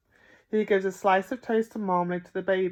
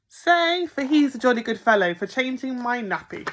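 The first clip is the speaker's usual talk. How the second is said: higher, louder sing-song prompting; coaxing the baby; 5 semitones higher, 5 dB louder than usual. A narrator's reading. Bill coaxing the baby to thank him, sing-song. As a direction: prompt it brightly.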